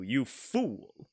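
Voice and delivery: a hint of a slow, menacing villain with Obama's cadence; lightly voiced evil Obama. Shown as a demonstration. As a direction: try to growl it like a villainous president. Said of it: "Let me, let me try that line too".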